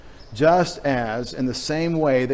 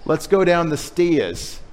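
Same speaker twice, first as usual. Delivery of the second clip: imitating a little kid; 3 semitones higher, slower than usual. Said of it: "you said".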